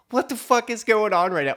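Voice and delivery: high incredulous outcry; so confused. Retold or imitated. Confused onlooker after the lamp blame, imitated high-pitched disbelief. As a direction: act out utter bewilderment. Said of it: "now he's so confused".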